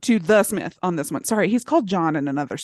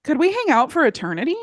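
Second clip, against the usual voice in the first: pleading devil; 7 semitones higher, faster than usual. Retold or imitated. Hosts voicing lonely devil.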